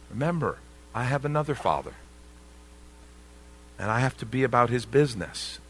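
loving, unhurried reminder; gentle reminder. Retold or imitated. Pastor voicing young Jesus reminding his parents, loving and gentle. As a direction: remind them gently and tenderly. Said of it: "but a loving, gentle reminder".

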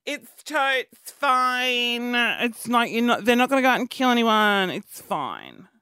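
slow, lazy, eye-rolling mimicry of critics; mocking the people who call her a snowflake, slow and dismissive; dismissive mock drawl. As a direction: drag out a dismissive "stop being a snowflake". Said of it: "everyone's like".

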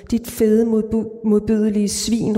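understated furious yelling, stumbling over the word; woman screams at her cheating husband, mildly voiced; hateful shout. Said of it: "råber hun".

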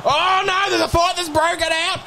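high-pitched commentary on a brawl; worked-up football commentator; excited play-by-play. Acted. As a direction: call the fight as it breaks out. Live play-by-play of a fight.

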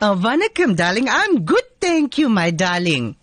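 man playing a doting Durban auntie; sweet-talking aunty character voice; Auntie Sheila voice. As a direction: male comic in a female auntie voice. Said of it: "you change into a female voice".

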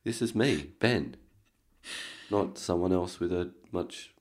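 talking through a gravelly throat. Real, not acted.

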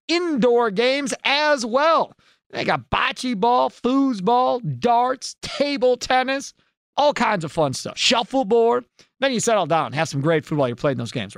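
punchy sponsor read, key words stretched; radio ad read. Acted. Host pitching a sports bar to listeners, ad-read delivery. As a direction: sell it item by item with lifted emphasis.

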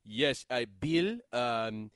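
halting mock German-accented question; foreign reporter's accent. International reporter asking the coach a question, halting foreign accent. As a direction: stumble through it in a foreign accent. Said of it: "from the international media".

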